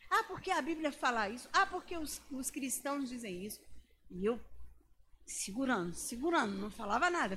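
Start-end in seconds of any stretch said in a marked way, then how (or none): 0.1-3.6 a lightly raised, scoffing professor voice; mocking professor. Preacher mimicking a scoffing professor to the congregation, lightly raised mock voice. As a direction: toss it off like a sneering lecturer. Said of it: "ele atacava na sala".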